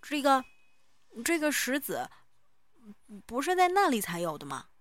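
indistinct, stone held in mouth; mouth full. A narrator's reading. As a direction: say it around a pebble on the tongue. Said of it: "口齿不清地开口".

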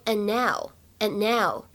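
and now with the d barely released before now; incomplete plosion. Shown as a demonstration. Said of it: "不完全失去爆破的现象". (不完全失去爆破的and now)

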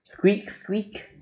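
high little storybook squeak; mouse squeak. A narrator's reading. Peanut pops out of a pocket, high squeak.

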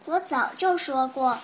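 proud. Acted. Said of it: "福瑞德自豪地说".

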